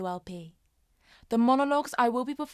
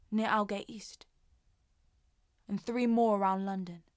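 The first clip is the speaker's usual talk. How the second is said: subdued Jackie. Acted. Jackie recalling being trapped on a bombed Tube line, subdued and haunted. Performs Jackie's monologue from modern play.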